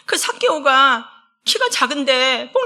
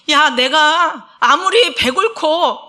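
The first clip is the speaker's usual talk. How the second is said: God's rebuke; 2 semitones higher, 5 dB louder, much slower than usual. Acted. Preacher voices God's rebuke.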